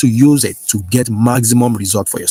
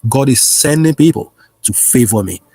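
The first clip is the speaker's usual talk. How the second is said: prayer declaration. Acted. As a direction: declare each line for the flock to repeat. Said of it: "Say this with me right now".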